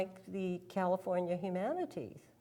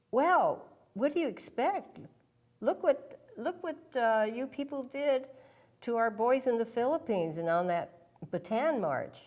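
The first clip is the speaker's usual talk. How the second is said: higher, louder accusing retort; mimicking hostile questioner; 4 semitones higher, 4 dB louder than usual. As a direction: throw the blame back like a hostile audience member. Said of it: "questions like".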